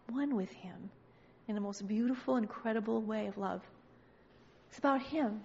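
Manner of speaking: low, soft and gentle; tender reassurance. Acted. Preacher telling the lady it's about the Son, softly reassuring. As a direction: settle into quiet, sincere comfort.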